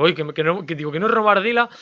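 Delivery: startled retelling. Retold or imitated. Streamer reliving his panic over Ardila, a touch alarmed. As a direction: replay the scare he just got.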